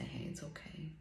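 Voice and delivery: put-on talking to her inner child kindly; gentle self-comfort. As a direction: soothe yourself like a loving parent. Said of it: "reach out for this and say".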